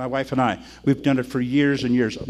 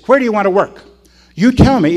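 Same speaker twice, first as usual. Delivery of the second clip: louder, higher asking; mild challenge; 5 semitones higher, 8 dB louder than usual. Retold or imitated. Pastor challenges the members to choose. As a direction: put it to them firmly. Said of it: "I say".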